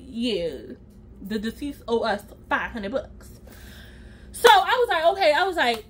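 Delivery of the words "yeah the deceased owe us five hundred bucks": low, hushed deadpan bill collector, lightly voiced; muttering the debt like a grim collector; mock bill collector. Ambulance people at the grieving family's door, low and hushed.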